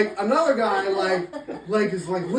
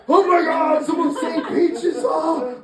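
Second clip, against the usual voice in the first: high, loud, drawn-out mock wail; hammed-up panicked shout; 9 semitones higher, 4 dB louder, slower than usual. Storyteller as owner watching dog swim away, mock panicked shout. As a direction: shout in exaggerated despair.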